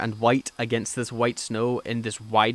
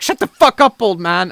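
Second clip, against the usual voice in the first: high, loud yell cutting him off; hammed-up outraged shouting; mock angry shout; 6 semitones higher, 9 dB louder than usual. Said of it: "they're like".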